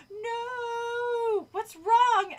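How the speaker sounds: high, loud alarmed shriek. A narrator's reading. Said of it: "Alex shrieked".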